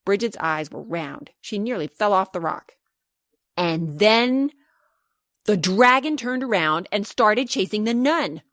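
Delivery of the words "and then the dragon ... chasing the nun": building suspense. Acted. Suspense then action.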